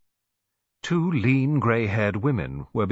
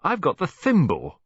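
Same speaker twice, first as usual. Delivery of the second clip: higher, louder mock wail; 9 semitones higher, 5 dB louder than usual. A narrator's reading. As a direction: moan at the bad luck. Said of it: "wailed Bridget".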